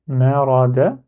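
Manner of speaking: MA RA DA as three open syllables, single d. Shown as a demonstration. Teacher reading before applying shadda, simple d. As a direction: read "ma ra da" evenly, no hold on d. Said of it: "Donc, je peux lire".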